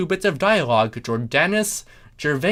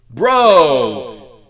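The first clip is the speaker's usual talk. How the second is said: loud, high bro shout; shouted greeting; 5 semitones higher, 10 dB louder than usual. A narrator's reading. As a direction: bellow it back like a buddy. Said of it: "Jason shouted".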